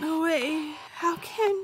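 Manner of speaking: sounding pathetic. A character faced by someone claiming to be them, sounding pathetic. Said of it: "don't sound so pathetic".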